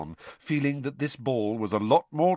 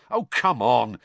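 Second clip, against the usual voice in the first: louder, impatient urging; impatiently; 3 semitones higher, 6 dB louder than usual. Acted. Ron pressing Hermione to agree, impatiently. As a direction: push them with open impatience. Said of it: "he said impatiently".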